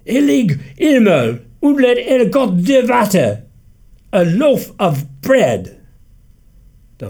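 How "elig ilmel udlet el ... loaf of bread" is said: put-on slow, higher, louder groaning old man; groaning old grandfather. A narrator's reading. Grandfather groaning to family, slow and louder. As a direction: groan it out slowly like an old patriarch. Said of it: "voice like a rumbling of distant thunder".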